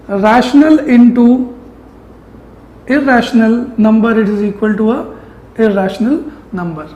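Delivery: very slow, word by word, for copying; slow dictation. Shown as a demonstration. Teacher dictating a rule to his class, very slow. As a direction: spell it out slowly so students can write. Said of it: "teacher dictating a rule to note".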